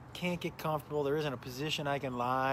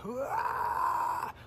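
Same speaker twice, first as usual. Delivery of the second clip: dry heave; 9 semitones higher than usual. Retold or imitated. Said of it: "the most aggressive".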